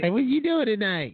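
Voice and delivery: high put-on sleazy call; sleazy driver. Creepy driver calls to woman, high sleazy voice. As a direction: hit on her from the car.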